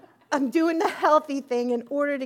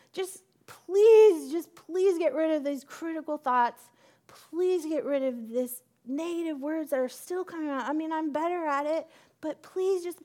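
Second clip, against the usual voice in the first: higher, urgent begging prayer; pleading with God; 5 semitones higher than usual. Retold or imitated. Woman at the altar begging God, pleading. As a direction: pour it out as a plea to be spared.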